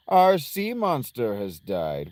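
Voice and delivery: slow, drawn-out game character; odd character voice. Acted. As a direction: draw the words out in a put-on voice. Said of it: "Why am I talking like this?".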